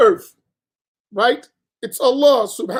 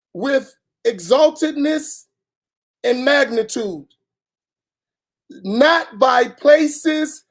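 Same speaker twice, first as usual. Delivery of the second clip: deliberate, spaced-out reading; measured delivery with long pauses between phrases; slowed down. Real, not acted. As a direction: read it out slowly, phrase by phrase. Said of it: "let me slow down".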